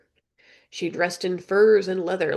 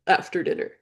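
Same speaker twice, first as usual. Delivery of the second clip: unvoiced whisper; whispered repeat. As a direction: breathe it like a secret. Raven repeats quietly.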